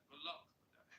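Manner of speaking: second, brighter try at the London accent, rising at the end; mimicking her accent. Shown as a demonstration. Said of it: "I'd have to hit your tone".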